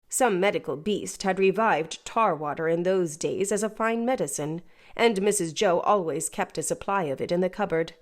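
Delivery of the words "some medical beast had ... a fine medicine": ordinary delivery, nothing marked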